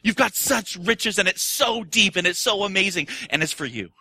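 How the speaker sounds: a touch of triumphant proclamation; joyful declaration. Acted. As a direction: announce good news warmly. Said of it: "The resurrection declares".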